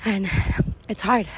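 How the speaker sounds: winded from pushing a stroller uphill; puffing between words; out of breath. Real, not acted. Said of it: "So I'm so out of breath".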